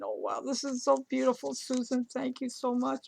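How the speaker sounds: quoting herself gushing thanks, quick and breathless; gushing over the gift. Retold or imitated. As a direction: playfully imitate your own over-the-top gushing. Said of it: "I can't stop, stop saying".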